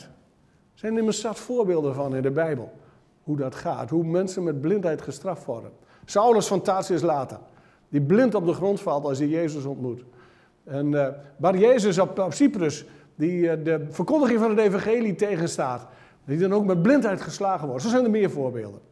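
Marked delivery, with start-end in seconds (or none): none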